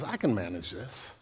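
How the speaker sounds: low, very soft self-talk; hushed, low rationalizing; self-reassuring murmur. Acted. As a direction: murmur it privately to yourself. What we begin to tell ourselves.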